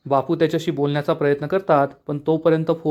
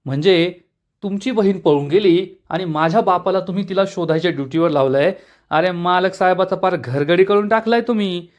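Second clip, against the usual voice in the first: a touch of raised, taunting anger; angry taunt; 3 semitones higher than usual. Acted. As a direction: needle them with mild irritation. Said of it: "प्रांजल चिडून म्हणतो". (थोडासा चिडलेला, टोमणा मारणारा सूर)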